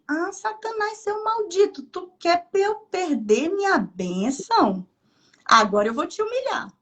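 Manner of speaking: high mocking scorn at Satanás, then firm; defiant rebuke. Preacher quoting herself scolding Satan, defiant. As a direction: taunt the devil, daring him.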